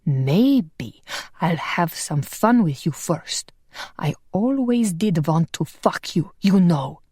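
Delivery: blade at her throat, a villain's mild snarl; lightly voiced villain. Sigismund leers at her.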